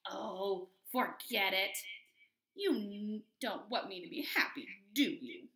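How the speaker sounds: mildly huffy pigeon; a little frustrated. Acted. Pigeon feeling nobody wants him happy, mildly frustrated. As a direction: give up in a small huff. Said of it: "He looks maybe a little frustrated".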